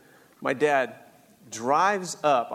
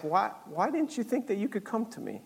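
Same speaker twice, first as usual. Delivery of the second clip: soft, slightly raised plea; gentle reproach; 5 semitones higher, 5 dB quieter than usual. Retold or imitated. Dad asks why son didn't come to him, soft gentle reproach. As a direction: ask softly, as a forgiving dad. Forgiving dad's gentle question.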